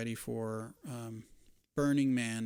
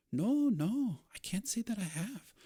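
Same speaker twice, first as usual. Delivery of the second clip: flustered landlady; 10 semitones higher than usual. Acted. Gwen denying, high voice.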